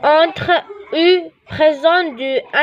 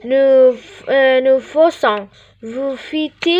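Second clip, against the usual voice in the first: slow drill; much slower than usual. Shown as a demonstration. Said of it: "نروحوا الفيرب faire".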